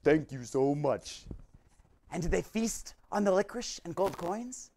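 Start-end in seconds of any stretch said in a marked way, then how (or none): 0.0-1.2 grateful clam voice. Acted. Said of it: "the clam was so grateful and said".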